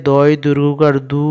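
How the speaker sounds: দু with a long, stretched u; long vowel. Shown as a demonstration. Teacher showing pupils the long vowel, দু held long. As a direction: draw out the vowel at the end of দু. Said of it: "এটা একটুকে লম্বা করে পড়তে হবে".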